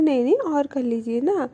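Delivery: gently coaxing, lightly affectionate; loving, girlfriend-like. Retold or imitated. Anu lovingly invites Alisha to stay angry, tender coaxing. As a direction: coax sweetly, like a girlfriend. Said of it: "बड़े प्यार से, like, जैसे कोई girlfriend".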